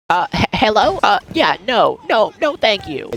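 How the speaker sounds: high-pitched, hesitant put-on goofy voice; dopey fake voice pitched well up; complete idiot voice. Shown as a demonstration. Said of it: "I was putting on this voice".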